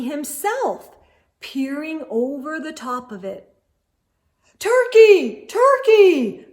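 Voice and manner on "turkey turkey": sweetest voice. A narrator's reading. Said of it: "in his sweetest voice".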